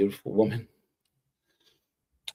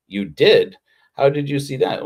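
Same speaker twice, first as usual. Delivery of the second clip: louder, rising in mock surprise; mock astonished you did; retold surprise; 5 semitones higher, 6 dB louder than usual. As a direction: play the aunts caught off guard. Aunts surprised by church visit.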